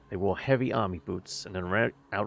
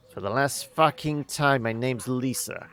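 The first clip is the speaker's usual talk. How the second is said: angry correction; 3 semitones higher than usual. Acted.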